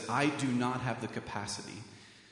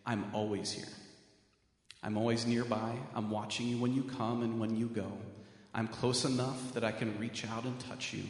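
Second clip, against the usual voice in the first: put-on soft, gentle reassurance to a small child; loving parent; 3 semitones lower, 5 dB quieter than usual. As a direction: speak low and tender like a parent soothing a child. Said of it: "that father saying".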